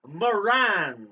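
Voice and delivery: high, gushing name call; excited. Acted. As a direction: gush over the name. Exaggerated name reading.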